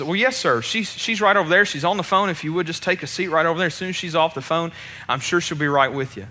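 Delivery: kindly. Retold or imitated. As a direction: soften it, politely helpful to a customer. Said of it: "very kindly says".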